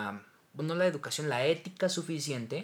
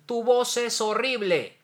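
a hint of a sneering critic, higher and louder, slow; lightly voiced put-down, drawn out; slow, lightly mocking jab at a voice; mock harsh critic; 9 semitones higher, 7 dB louder, slower than usual. Colleagues told harsh comments about voice.

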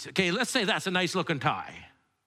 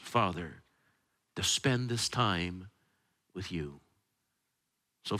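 prayer; 5 semitones lower than usual. Acted. Prayer before the sermon.

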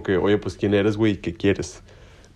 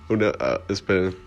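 holding back laughter; 5 dB quieter than usual. Real, not acted. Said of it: "estoy agarrando fuerzas".

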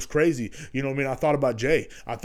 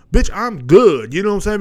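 defiant; 6 semitones higher, 8 dB louder than usual. Real, not acted. Telling his worried homeboy he's fine, defiant. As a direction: lean hard on bitch and stretch it.

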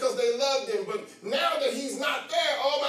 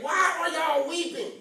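voicing Jesus; 3 semitones higher than usual. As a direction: speak as the risen Lord, challenging.

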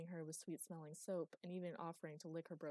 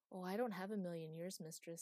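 sad. Acted. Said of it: "said Maggie sadly".

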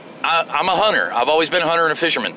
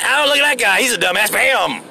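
imitated redneck; 6 semitones higher than usual. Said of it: "They'll be like".

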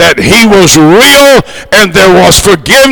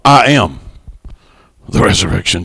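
hushed, reverent; 12 semitones lower, 7 dB quieter than usual. Acted. Preacher softly savouring his favourite verse, hushed. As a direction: drop the voice low and much softer on the resurrection. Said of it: "one of my favorite passages".

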